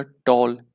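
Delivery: टॉल said as one single loud syllable; एक syllable में. Shown as a demonstration. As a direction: say टॉल in one firm beat. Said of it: "एक ही syllable में बोला". (टॉल को ज़ोर से एक ही सिलेबल में)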